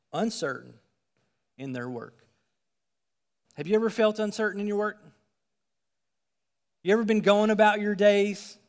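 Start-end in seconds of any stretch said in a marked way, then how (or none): 3.5-8.6 fervent appeal. Real, not acted. Preacher appeals to congregation.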